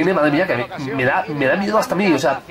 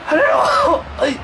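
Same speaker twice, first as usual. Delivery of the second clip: high shouted ay no; high panicked yelp at a chance against him; alarmed cry; 11 semitones higher, much slower than usual. Real, not acted. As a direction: yelp in panic as the rival shoots. Near own goal.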